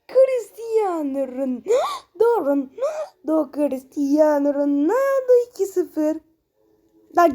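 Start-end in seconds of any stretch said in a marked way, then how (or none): 0.1-6.2 slow, drawn-out crying goal call; goal celebration call. Pretend. Gamer celebrating Ronaldo's goal like a TV commentator, drawn-out cry. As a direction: wail the name like a commentator celebrating. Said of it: "Buna gol sevinci yapılır".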